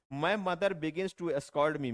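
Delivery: very slow, word by word; slow dictation. Shown as a demonstration. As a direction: read the example slowly for copying. Teacher reads model sentence. (धीरे धीरे, हर शब्द अलग)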